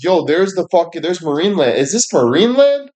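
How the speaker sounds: rising mock amazement, lightly voiced; bewildered onlookers. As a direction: play a stunned bystander wondering if it's heaven. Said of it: "they're like".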